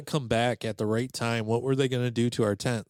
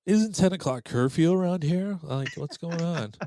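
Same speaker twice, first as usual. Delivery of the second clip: indignant; 5 semitones higher than usual. Retold or imitated. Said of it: "I'm pretty sure I said".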